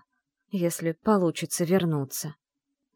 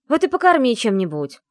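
louder, higher snapping retort; barked; 6 semitones higher, 8 dB louder than usual. A narrator's reading. Riyana snaps at the nurse about feeding, loud bark. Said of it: "рявкнула Рияна".

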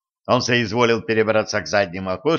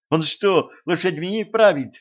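higher, startled question; exclaiming; 7 semitones higher than usual. Acted. Girl astonished the old man drives the horses, startled exclaim. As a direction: blurt it out in disbelief. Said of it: "воскликнула Женька".

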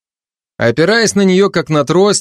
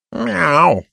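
snide meow; 6 semitones higher than usual. Acted. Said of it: "ехидно усмехнулся кот".

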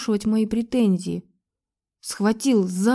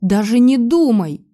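loud refusal; 3 semitones higher, 7 dB louder than usual. Acted. Heroine refuses him.

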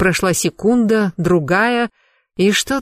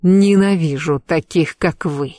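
open threat; slower than usual. Acted. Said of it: "ответил неприкрытой угрозой".

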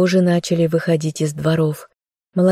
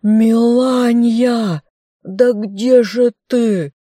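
high, drawn-out impatient holler; bellowing; 7 semitones higher, 4 dB louder, much slower than usual. A narrator's reading. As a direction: yell for someone out of sight. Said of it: "снова заорал мужик". (нетерпеливо орёт, растягивая слова)

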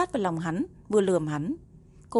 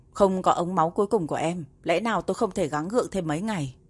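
furious roar. Acted. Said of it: "Tề Mặc đột nhiên gầm lên".

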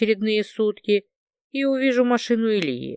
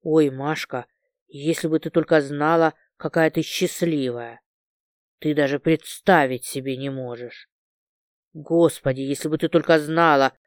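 excited rambling; 5 semitones lower than usual. Acted. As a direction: lower breathless gush, voice wavering. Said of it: "голос постоянно срывался и дрожал".

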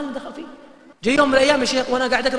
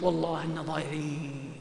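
quiet lament; 6 semitones lower, 11 dB quieter, slower than usual. Retold or imitated. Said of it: "قلت".

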